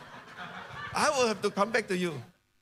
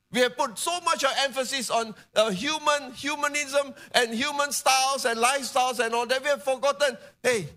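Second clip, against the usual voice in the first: high, insistent sermon voice; impassioned preaching; 7 semitones higher than usual. Real, not acted. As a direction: press the point home to the congregation, pitched high. Preaches at full force.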